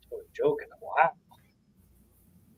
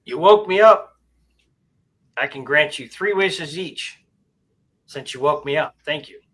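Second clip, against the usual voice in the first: genie voice; 2 semitones higher, 7 dB louder than usual. Acted. Genie voice in joke.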